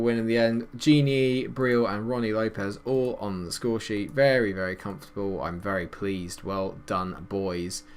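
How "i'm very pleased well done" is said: usual speaking voice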